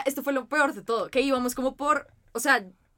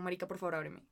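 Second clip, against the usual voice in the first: mock pleading; 5 semitones lower, 14 dB quieter than usual. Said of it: "yo era como".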